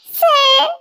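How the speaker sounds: hammed-up sob on sir, pitch up; fake crying. Assistant fakes tears to boss to get leave. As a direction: put on a tearful act. Faking grief to leave work.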